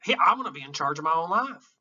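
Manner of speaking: a hint of a defiant soldier; quoting Lieutenant Dan from the movie, lightly voiced as a defiant boast. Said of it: "Somebody in that movie lets it bother him".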